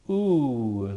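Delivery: oo as a long vowel, as in soup; oo like the middle of "soup"; oo sound. Shown as a demonstration. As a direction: sound out oo by itself. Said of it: "like in soup".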